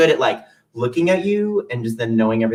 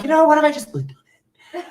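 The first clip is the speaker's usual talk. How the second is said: sheepish laugh; 13 semitones higher than usual. Retold or imitated. Tempted, sheepish self-quote.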